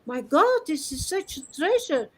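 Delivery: half-shouted, fervent defence of the truth; retold impassioned shouting. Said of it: "he's surprised that we shout for that".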